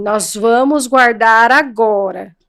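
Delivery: very slow, calm and firm; firm parent. Shown as a demonstration. Host showing the firm line to the child, slow. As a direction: lay down each word firmly. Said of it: "demonstrates firm parent line".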